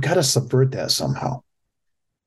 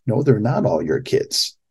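ordinary talk

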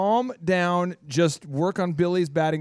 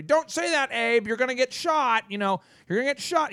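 mock worried friend; 6 semitones higher than usual. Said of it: "warning Abe".

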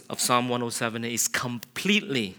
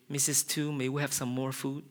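polite request; 2 semitones higher, 7 dB quieter than usual. Retold or imitated. Guest politely asking host.

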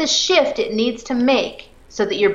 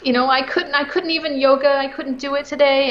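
put-on high, whiny child voice explaining his failure; whiny kid; 8 semitones higher than usual. Child excusing himself to his parent, high and whiny. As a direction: play the frustrated kid who couldn't do yoga. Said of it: "he might say".

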